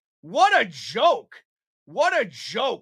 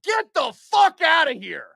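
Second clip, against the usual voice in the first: angry shout; 4 semitones higher than usual. Real, not acted. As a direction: bark it out in disgust. Streamer dismissing the call.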